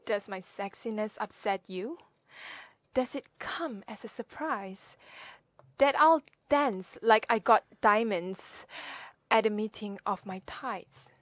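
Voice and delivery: questioning poetry reading with dramatic pauses; poem recitation. Acted. Sharing Maya Angelou's poem, questioning recitation. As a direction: pose it as a challenge, stressing the key images.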